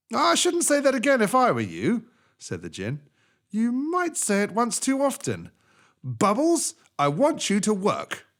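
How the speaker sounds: high, loud stern djinn; djinn warning. Acted. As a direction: warn the camel sternly.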